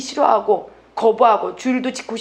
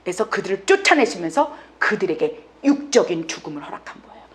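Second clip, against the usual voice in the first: usual speaking voice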